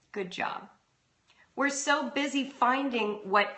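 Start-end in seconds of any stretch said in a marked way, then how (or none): 0.1-0.7 put-on breathy whisper, just for the child; whispered praise. Shown as a demonstration. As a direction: hush it like a private compliment. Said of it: "Say the words".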